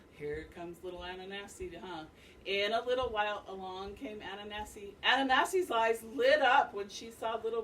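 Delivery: reading a picture book aloud to the class; story reading. A narrator's reading. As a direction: tell it like a storyteller for children. Teacher reads story to class.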